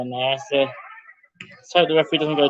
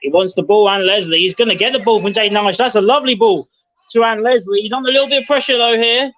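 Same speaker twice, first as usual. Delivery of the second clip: rising excitement; 5 semitones higher, 4 dB louder than usual. Real, not acted. Commentator calling a slick United passing move, excited and rising. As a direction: pitch climbing as the move builds, louder.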